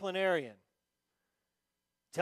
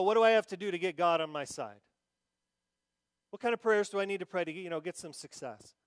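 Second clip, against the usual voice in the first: imitating the demand; 5 dB louder, faster than usual. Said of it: "They just wanna know".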